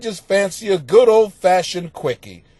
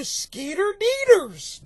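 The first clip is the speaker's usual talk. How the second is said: amused name reading; 12 semitones higher, slower than usual. Real, not acted.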